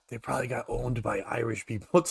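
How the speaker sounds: put-on low, soft, dopey kid voice; mock dumb kid. White kids guessing about the name, in a dopey mock voice. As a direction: mumble it like a clueless small-town kid. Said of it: "every white kid was like".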